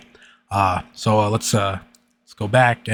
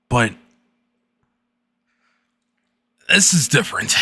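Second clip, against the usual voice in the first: serious voice. A narrator's reading. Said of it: "read another story in a serious voice".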